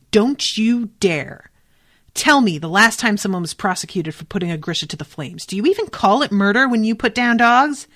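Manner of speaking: mildly acted indignant challenge; indignant outburst. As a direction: read it as a heated rebuke. Acted quarrel read from the book.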